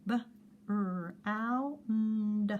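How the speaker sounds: each sound apart: B, R, ow, n, d; sounding out words. Shown as a demonstration. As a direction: sound out brown one sound at a time. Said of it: "Sound out the word brown".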